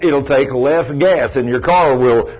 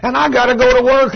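high whiny groan at God; mock grumbling prayer; 5 semitones higher than usual. Believer grumbling to God about Monday, whiny. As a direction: whine it like a Monday morning complaint. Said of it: "all we got to say".

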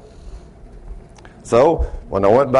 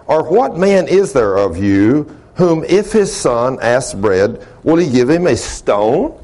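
scripture reading. Real, not acted. Reads scripture to congregation.

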